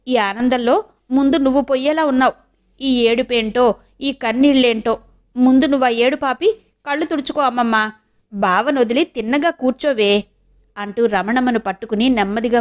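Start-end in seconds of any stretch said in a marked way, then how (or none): 0.1-10.2 lightly voiced fond scolding; a hint of a granddaughter telling grandma off; chiding granddaughter. (అమ్మమ్మను సున్నితంగా మందలించే మనవరాలు)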